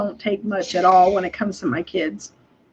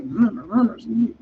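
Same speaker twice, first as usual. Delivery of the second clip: gepresstes, wütendes Brummen; angry muttering hum; 4 dB quieter, slower than usual. Retold or imitated. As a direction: brumm leise vor dich hin, verärgert. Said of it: "talking under your breath".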